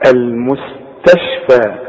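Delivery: "المستشفى" slow, with thin m, s, t; light m and s. Shown as a demonstration. Teacher gives a comparison word, slow light "المستشفى". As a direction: stretch "المستشفى", all sounds light. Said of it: "على وزن إيه؟".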